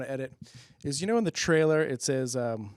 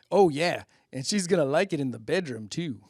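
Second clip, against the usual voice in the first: Frank Thomas. Retold or imitated. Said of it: "Listen to what Frank Thomas has to say".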